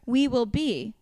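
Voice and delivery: put-on reading lyrics in a loud, laughing Jersey accent; over-the-top Jersey accent, half laughing. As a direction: ham up a Jersey girl reading a pop star's lyrics. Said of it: "Do a Jersey accent saying the word".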